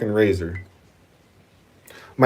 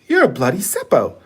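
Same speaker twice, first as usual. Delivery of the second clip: higher-pitched mock Australian accent; put-on Australian accent, pitched up; imitated Australian girl; 6 semitones higher than usual. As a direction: mimic an Australian girl's jibe. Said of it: "this girl saw this American".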